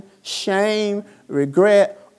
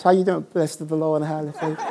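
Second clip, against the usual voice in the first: mock churchgoer; 3 semitones lower, faster than usual. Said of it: "We come to church".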